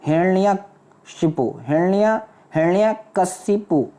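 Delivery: हिरण्यकशिपु spelled out slowly, syllable by syllable; हिरण्यकशिपु धीरे धीरे, एक एक अक्षर; careful syllables. Shown as a demonstration. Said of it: "बहुत ज़्यादा ध्यान रखना".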